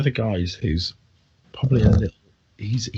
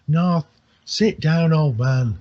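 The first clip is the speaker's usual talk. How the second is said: higher, louder, slow scolding; villagers scolding; 6 semitones higher, 4 dB louder, slower than usual. Acted. Tavern folk tell the old drunk off, loud scolding.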